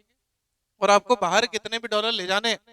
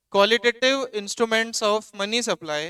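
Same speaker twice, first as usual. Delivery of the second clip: slow dictation; much slower than usual. Shown as a demonstration. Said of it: "heading लगानी है".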